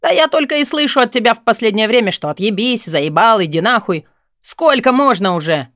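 high, loud rant of a fed-up friend; exasperated outburst. A narrator's reading. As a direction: let the complaints pour out angrily. Friend explodes in quarrel.

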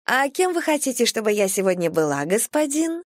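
lightly purred seductive question; breathy vintage purr. A narrator's reading. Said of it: "промурлыкала девушка". (лёгкое мурлыканье соблазнительницы)

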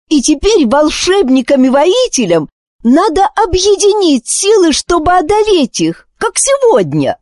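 put-on high, eager girl's voice; a girl pleading her case with all her heart; passionate plea. Wish urging wizards and warriors, high and passionate.

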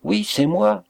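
high-pitched, eager confirmation; elated cry; excited exclamation. A narrator's reading. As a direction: burst out with it, pitch well up. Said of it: "s'écria le maître d'hôtel".

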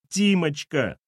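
high, plaintive endearment; sobbing. Acted. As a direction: call to the boy tearfully. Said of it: "провсхлипывала Валентина".

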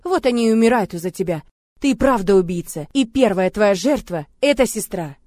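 loud, high, wounding accusations; cruel shouting. Acted. Heroine shouting cruel words at Murat to hurt him.

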